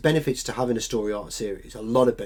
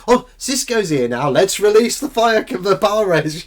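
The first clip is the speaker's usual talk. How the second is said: sarcastic alien voice; 5 semitones higher, 6 dB louder than usual. Retold or imitated.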